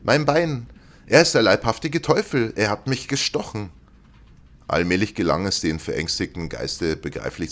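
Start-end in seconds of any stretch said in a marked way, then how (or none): 0.0-0.7 high, louder cry of Bein; pained scream. A narrator's reading. Ghost stabbed in the leg, screaming louder. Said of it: "und schrie". 1.1-3.7 high, loud cry of horror; terrified scream. A narrator's reading. Ghost screaming about the devil stabbing him. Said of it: "und schrie".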